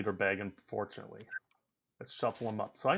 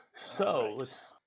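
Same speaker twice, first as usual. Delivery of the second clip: whisper; 7 dB quieter than usual. Real, not acted. Muttering to himself over move.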